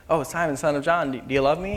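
breezy, offhand, run-on asking; casual question. Acted. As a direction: toss it off lightly. Imagined casual asking, just once.

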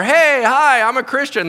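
bright, loud and high eager greeting; mock cheery greeting. Preacher acting out an eager door knock, overly cheery. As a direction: greet the stranger a bit too eagerly.

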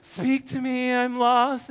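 lightly hammed-up emo plea; mock emo lament. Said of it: "Habakkuk has this emo moment".

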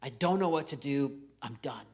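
a drained, barely voiced I'm done; mock exhausted mutter; worn-out sigh. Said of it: "I get to the point where I feel like".

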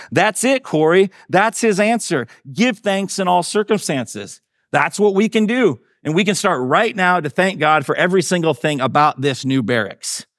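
high, eager woman's voice in a story; excited discovery. A narrator's reading. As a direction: urge your sister on with high, eager delight. Betsy discovers the answer in story.

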